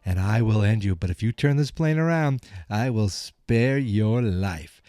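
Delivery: grave warrior ultimatum; martial arts master. Retold or imitated. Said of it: "He goes".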